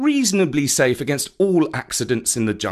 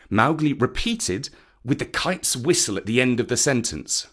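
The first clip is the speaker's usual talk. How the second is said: usual speaking voice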